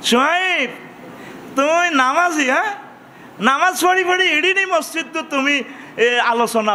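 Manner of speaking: scoffing crowd voice, lightly voiced; taunting villager. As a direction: jeer at him as a scornful townsman. People taunting prophet Shoaib.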